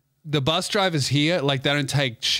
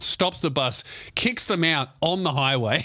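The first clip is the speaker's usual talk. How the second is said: ordinary talk, nothing marked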